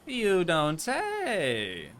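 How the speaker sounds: very slow, dry "You don't say"; drawn-out sarcasm. Real, not acted. Streamer answering chat with slow heavy sarcasm. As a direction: stretch it out, mocking the obvious.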